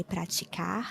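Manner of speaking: praticar with the final R dropped; Rio final R. Shown as a demonstration. Teacher shows the Rio praticar, R dropped. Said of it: "Rio would say".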